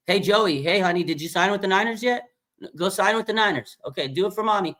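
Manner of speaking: high, doting mom voice, pleading sweetly; Cheryl, Joey's mom. Retold or imitated. Mom calling son Joey to sign, high doting plea. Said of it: "And then she calls him".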